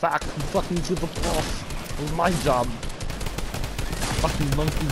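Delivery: put-on Russian accent. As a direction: snarl in a heavy Russian accent. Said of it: "doing a Russian accent".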